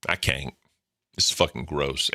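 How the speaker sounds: usual speaking voice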